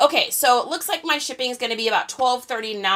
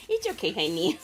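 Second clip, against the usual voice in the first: laughing; 2 semitones lower, 6 dB quieter than usual. Real, not acted. Laughing reassurance to son.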